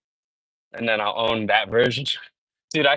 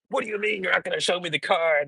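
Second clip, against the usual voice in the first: retold mad complaint; 7 semitones higher, 3 dB quieter than usual. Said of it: "like, very mad".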